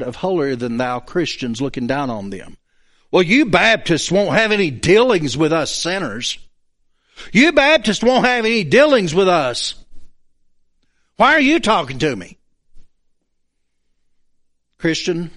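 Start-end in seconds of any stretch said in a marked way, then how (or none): 3.1-12.4 combative, sarcastic retort. Acted. Lost person fed up with holier-than-thou Christians, sarcastic. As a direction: throw it back with thick sarcasm. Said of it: "sarcasm so thick you could cut it".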